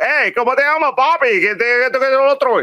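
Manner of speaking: high-pitched mock Spanish greeting in a Latino accent; caricatured Latino accent. Co-host mimicking the racist-sounding robot, in a high caricatured Latino accent. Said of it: "this guy was like".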